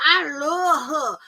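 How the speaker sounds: slow, drawn-out, gushing, half laughing; mock Askala swooning over her friend; syrupy slow imitation, almost tearful; imitating Askala. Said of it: "Your friend Askala talk about".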